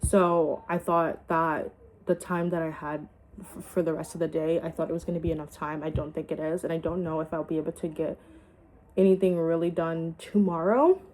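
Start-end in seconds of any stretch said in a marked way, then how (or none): 5.2-11.0 talking while chewing gum; words round a piece of gum; mouth full. Real, not acted. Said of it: "sorry, I have gum in my mouth".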